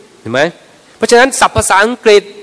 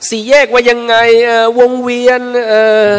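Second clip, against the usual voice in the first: higher, droning 'can't think of it' demo; stuck for a word; 4 semitones higher than usual. Acted. Learner groping for English words for road features, stuck. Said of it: "ไอ้ที่เรานึกไม่ออกอะ".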